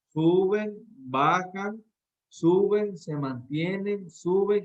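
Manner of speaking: each "suben" lifted up, "se mantienen" dropped and slowed; voice rising and falling. Shown as a demonstration. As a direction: show the voice climbing and settling like a staircase. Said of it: "Las predicaciones van así".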